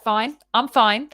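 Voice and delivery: slow, pointed fine, fine; I'm fine, through tight lips; curt fine. Retold or imitated. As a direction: say you're fine when you're not. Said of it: "I would be like".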